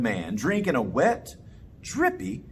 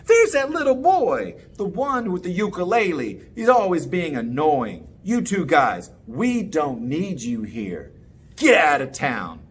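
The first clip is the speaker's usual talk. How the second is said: angry crowd. Acted. Townspeople chase them out.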